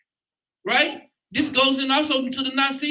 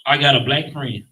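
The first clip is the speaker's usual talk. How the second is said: mocking white person; 9 semitones lower, 4 dB louder than usual. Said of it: "first thing they tell you is what?".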